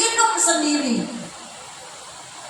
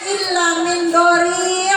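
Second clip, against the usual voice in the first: Qur'an recitation; slower than usual. Real, not acted. Repeats verse before translating it.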